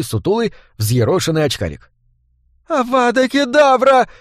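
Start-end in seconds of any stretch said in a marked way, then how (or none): 2.7-4.1 high, slow, cracking spell shout; a scared boy trying to sound mighty; squeaky voice cracking on the spell; thin breaking cry. A narrator's reading. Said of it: "тонким срывающимся голосом воскликнул он".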